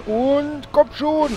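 high, slow drawn-out plea; loud urgent plea; urgent shout. Real, not acted. Heal before dying in boss fight.

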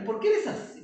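a real laugh of disbelief at the student; laughing exasperation. Real, not acted. Teacher laughing at a student who says it doesn't work.

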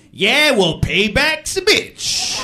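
high, loud, drawn-out pronouncement; cliché-spouting friend. Acted. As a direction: deliver the saying like a punchy verdict. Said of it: "he's always talking in cliches".

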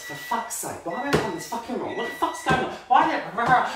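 high, sweary rant dissolving into rah-rah noises; shouting at oneself. Retold or imitated. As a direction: imitate a frustrated DIY meltdown. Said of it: "I shout at myself while I'm doing it".

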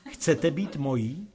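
coaxing. Acted. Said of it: "oslovil jsem jí mazlivě".

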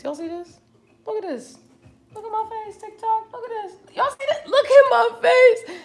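high, loud giggly show-and-tell; laughing as she shows off her sweaty face; excited laughing. Real, not acted.

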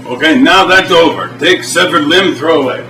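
broken-English Russian host, deadpan; mock Eastern European TV host; fake Russian accent. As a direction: play a stern Russian cook in broken English. Boris sketch continues.

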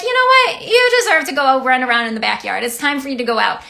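treat the dog to a happy outing; excited owner to dog. Retold or imitated. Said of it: "you're like".

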